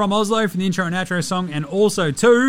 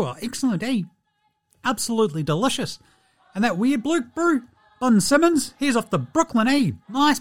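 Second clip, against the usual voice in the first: Steven Adams impression; 3 semitones higher than usual. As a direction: play a laid-back New Zealand giant reading his diary aloud. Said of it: "close out the week with a Diary of Steven Adams".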